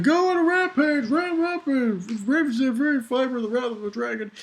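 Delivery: mock commanding villain; villain Rogue. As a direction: ham up an evil order. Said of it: "And then Rogue's like".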